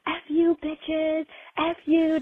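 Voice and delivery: high-pitched mock yell at the desk ladies; mild mock outburst, cursing at the front desk; retold yell. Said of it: "as he's yelling".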